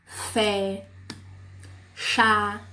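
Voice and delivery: single words held long, with pauses between; each word as one drawn-out, isolated beat; one-syllable examples. Shown as a demonstration. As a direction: say each word alone, slowly and evenly. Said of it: "Uma sílaba só".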